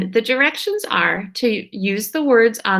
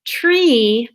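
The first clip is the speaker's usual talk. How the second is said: slow reading; much slower than usual. Shown as a demonstration. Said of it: "If you wrote this".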